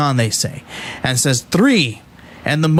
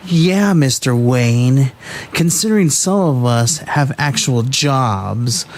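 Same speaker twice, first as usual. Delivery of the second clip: performed reading. Shown as a demonstration. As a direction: lean on the sarcasm, drag the words out. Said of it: "it would probably go a little something like this".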